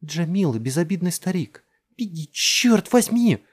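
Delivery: very high, loud scream, slowing; screaming mother. A narrator's reading. Mother screaming at Jess to run. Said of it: "закричала мать".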